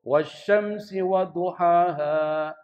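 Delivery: slow chanted DUHAHA with a misplaced throat sound; salah makhraj. Shown as a demonstration. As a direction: recite "duhaha" with the h wrongly placed. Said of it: "banyak orang baca keliru". (bacaan keliru "duhaha", huruf ha salah tempat)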